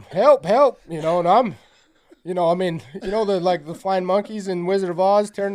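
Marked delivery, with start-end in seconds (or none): 0.0-0.8 loud, high cries for help; re-enacted shouts for rescue; retold hollering. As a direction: holler it as if re-living the fight. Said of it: "I'm hollering".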